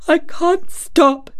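high, slow sobbing plea; gasping sob. A narrator's reading. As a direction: choke it out through sobs. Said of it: "he gasped and sobbed".

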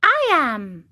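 high, odd little cricket voice; the cricket reveals himself; talking cricket. Acted. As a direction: answer as a wise small insect.

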